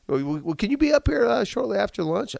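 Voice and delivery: high, bright caller asking politely. Retold or imitated. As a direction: lift the voice way up for the caller. Voicing the caller's question.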